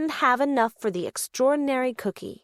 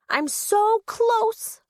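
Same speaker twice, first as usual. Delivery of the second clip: hopeful; 9 semitones higher, much slower than usual. Acted. Rolly almost has enough.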